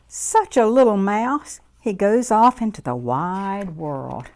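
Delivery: lively storybook voice for little ones; reading to children. A narrator's reading. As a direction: read it warmly to a circle of kids. Reads picture book to children.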